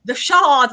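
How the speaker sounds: "The Shard" as the TV presenter pronounced it; imitated presenter's pronunciation. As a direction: say "The Shard" lightly mimicking a BBC presenter's vowel. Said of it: "the pronunciation of it".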